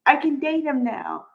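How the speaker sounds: high, gleeful yay; mock gleeful cheer over the breakup; secret glee. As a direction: squeal inside with delight. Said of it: "inside they're like".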